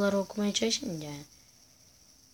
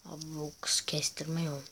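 whisper; 3 semitones lower, 6 dB quieter than usual. Real, not acted. Aside remark while playing.

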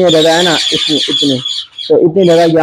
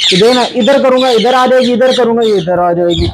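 higher, urgent coaxing while chasing a bird; calling out as the bird darts around; coaxing a loose bird, higher and urgent; excited coaxing; 5 semitones higher than usual. Real, not acted. Chasing escaped bird in cage.

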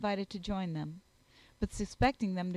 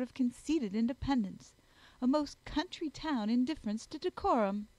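higher-pitched scandalised society lady; indignant Miss Bingley; 4 semitones higher, 3 dB louder than usual. Acted. Snob deploring Elizabeth walking alone in dirt, indignant. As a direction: count off each offence with mounting disapproval.

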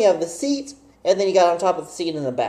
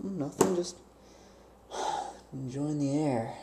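much softer, low, sheepish reply; innocent mumble; 5 semitones lower, 16 dB quieter than usual. Retold or imitated. Answering dad caught out, soft sheepish mumble. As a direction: play it down quietly. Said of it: "I was like".

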